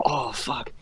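hushed dread, half-whispered; dismayed whisper. Retold or imitated. Storyteller to himself before a controversial word, dismayed whisper. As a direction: whisper it as the trouble dawns.

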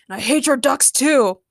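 mild growl of spite; lightly acted surly retort. A narrator's reading. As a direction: growl the insult back. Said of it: "Logan growled".

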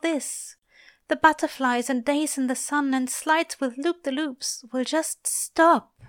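high-pitched grieving voice; pained lament. A narrator's reading. Angel fearing for the children's innocence, pained. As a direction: mourn it in a high, aching voice. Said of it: "mirroring Aziraphale's own current pain".

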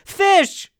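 put-on high, loud cracked old-man call; senile fisherman. Old fisherman calling his name, loud and high. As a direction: croak it like a confused grandpa. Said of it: "Sound like a senile fisherman".

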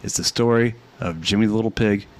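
put-on storyteller reading to kids; animated bedtime narration; bedtime story voice.

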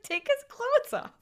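a doctor giving the obvious fix; deadpan doctor. Retold or imitated. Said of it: "It's like".

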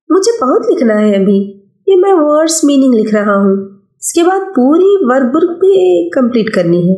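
put-on young boy. Child Afaq voiced.

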